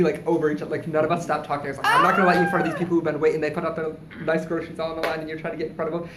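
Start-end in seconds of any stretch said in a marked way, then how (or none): 1.9-6.1 arguing. Retold or imitated. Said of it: "verbally arguing".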